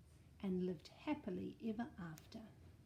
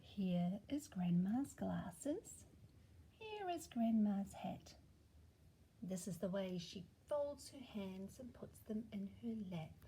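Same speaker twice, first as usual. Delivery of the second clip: finger rhyme; 3 semitones lower than usual. Acted. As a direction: whisper the rhyme to the child. Rhyme game.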